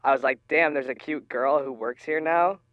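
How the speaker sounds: anonymized, processed guest voice; disguised voice. Real, not acted. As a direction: voice altered to hide who is speaking. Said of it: "whose voice is disguised".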